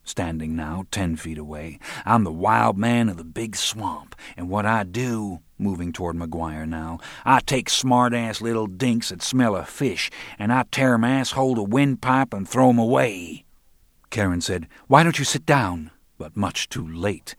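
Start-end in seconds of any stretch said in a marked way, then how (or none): 2.1-13.4 menacing threat. Acted. Roland threatening McGuire. 14.9-15.9 raised warning. Acted. Karen intervening.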